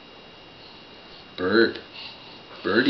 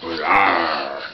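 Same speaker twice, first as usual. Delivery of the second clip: mock lion roar, a bit louder; playful roar; 4 semitones lower, 3 dB louder than usual. Parent roaring the big kitty for baby. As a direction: growl like a friendly cat. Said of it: "Big kitty".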